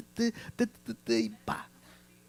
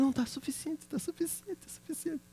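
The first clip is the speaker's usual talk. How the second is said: higher, softening, hurried repeats; hurried nurse voice; 12 semitones higher, 10 dB quieter than usual. Retold or imitated. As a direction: mimic the nurse cutting him off, fading each time. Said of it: "E ela falou".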